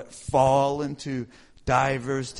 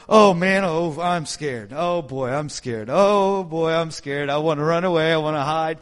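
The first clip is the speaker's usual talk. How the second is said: mock scared; 3 dB louder than usual. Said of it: "And now I'm going".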